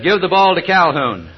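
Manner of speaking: a coach hollering an order to his quarterback; coach yelling. Retold or imitated. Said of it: "he yelled over to the quarterback".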